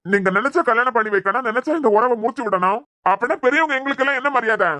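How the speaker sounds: offended, rising indignation; indignant rebuke. Acted. Elder rebukes the young couple.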